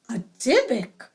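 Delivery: falling alarmed exclamation. Acted. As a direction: declare it in alarm. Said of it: "exclaimed the guests".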